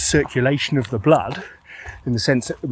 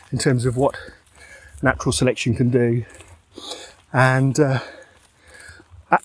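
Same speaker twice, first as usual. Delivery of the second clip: breathless from walking uphill; talking while short of breath. Real, not acted. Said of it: "Sorry, I'm out of breath".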